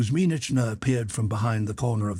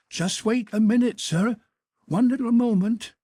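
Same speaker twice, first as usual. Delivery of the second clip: put-on high, louder, hurried old-woman voice; eager old housekeeper; 12 semitones higher, 4 dB louder than usual. A narrator's reading. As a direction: beg him to stay while you fetch something.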